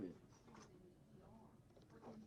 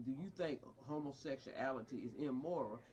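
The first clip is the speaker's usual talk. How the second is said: mocking quote; 10 semitones lower, 4 dB quieter than usual. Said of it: "trying to question somebody".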